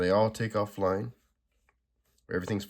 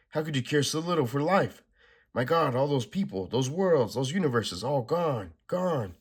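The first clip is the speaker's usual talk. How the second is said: raised, pressing heroine voice; Supergirl furious; 5 semitones higher, 4 dB louder than usual. Acted. Supergirl rages at the Anti-Monitor while punching him, raised voice. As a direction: Supergirl berating the villain as she hits.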